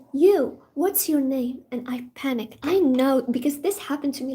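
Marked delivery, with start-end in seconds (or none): 0.1-1.6 slow, louder call-out of a stern teacher; single her out slowly and firmly; stern professor. Retold or imitated. Professor calling on a drowsy student, slow and stern. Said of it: "he was like".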